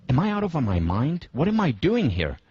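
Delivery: swooping, incredulous question to oneself; mock self-questioning. Participant in a cold state questions himself, mock disbelief. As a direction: imitate someone coming to their senses. Participants' imagined second thoughts.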